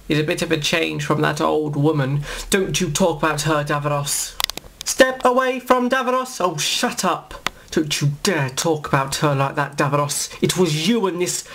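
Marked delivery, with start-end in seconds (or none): 4.9-6.4 sharp command. Acted. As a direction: bark it like a guard. Guard commanding the Doctor.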